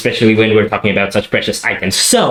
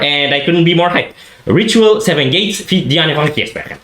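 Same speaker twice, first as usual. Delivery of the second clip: excited; 5 semitones higher than usual. Real, not acted. Hyping up the song reveal.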